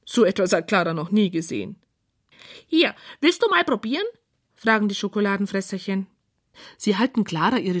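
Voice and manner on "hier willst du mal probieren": high, eager offer from a tiny furry creature; sweet, high little helper voice. Acted. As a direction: pitch it up like a small chocolate eater.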